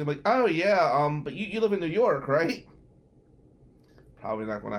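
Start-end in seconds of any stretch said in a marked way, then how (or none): 0.2-2.6 fake polite brush-off.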